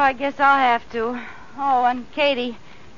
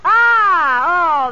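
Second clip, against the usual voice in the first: laughing; 3 semitones higher, 5 dB louder than usual. Acted. Laughing with glee.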